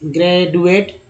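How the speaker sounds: ग्रेजुएट with a hard retroflex D, "gray-du-ate"; hard D sound. Shown as a demonstration. Teacher tests a hard D for students, hard-D pronunciation. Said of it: "तो डी पहले ड लगाएंगे".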